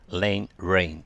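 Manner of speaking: "rain、rain" slowly, first with L as lane, then with R; L versus R. Shown as a demonstration. Teacher demonstrating a minimal pair, L first then R. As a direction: contrast lane and rain, tongue tip then curled. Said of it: "LとRの違い".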